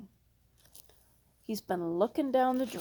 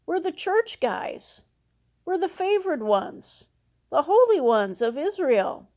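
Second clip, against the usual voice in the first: higher, puffed-up churchy boast; mock smug pride; 4 semitones higher than usual. Preacher mocks the Pharisees bragging to Jesus, higher and puffed-up. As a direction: mimic the Pharisees' self-importance. Mocking Pharisees' self-importance.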